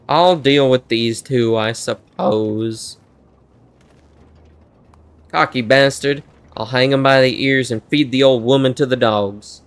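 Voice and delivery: roughly imitated Western country twang; attempted Texas accent. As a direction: have a shaky go at a Texan outlaw. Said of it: "Trying to do Texas or, like, country".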